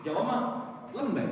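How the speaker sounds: "lembek" said high and soft; mock Javanese softness. Shown as a demonstration. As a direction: Javanese "lembek" eased out gently. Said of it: "Sunda, lembek".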